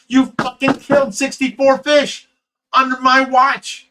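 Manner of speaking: high, loud, indignant outburst; angry accusation. Retold or imitated. Rescuer blaming absent helper for dead fish, angry outburst.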